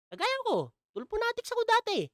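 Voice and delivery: high, laughing confession; laughing admission. Real, not acted. Self-mocking admission with laugh. (tumatawang pag-amin)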